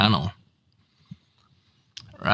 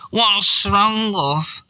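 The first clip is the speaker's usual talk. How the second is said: concerned wife; 9 semitones higher, much slower than usual. Retold or imitated. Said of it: "his missus says".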